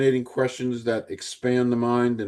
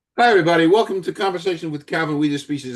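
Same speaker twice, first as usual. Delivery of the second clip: rushed, rattled-off, fast and pitched-up delivery; 5 semitones higher, 3 dB louder than usual. Opening a conversation show with lots to cover, speaking fast. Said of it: "I'm speaking fast".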